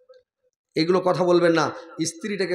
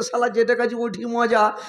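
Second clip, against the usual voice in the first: higher, slower muttered inner voice; inner grumble; 6 semitones higher than usual. Retold or imitated. Husband's hidden thought about the curry, slow higher aside. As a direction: voice the husband's secret thought, slowly. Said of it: "এটা মানে মুখে কহছি, ভিতরে তো কহছি".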